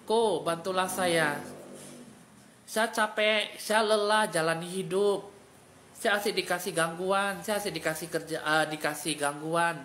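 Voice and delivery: slow, weary plea from the lost soul; a lightly voiced soul begging for rescue; pleading soul voice. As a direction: beg for help as the tired soul, drawn out. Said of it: "ini jiwa kamu bilang".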